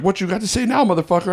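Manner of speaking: high-pitched imitated threat; threatening biker. Biker with a gun to comic on stage, mock-threatening. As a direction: taunt him, imitating an angry gunman.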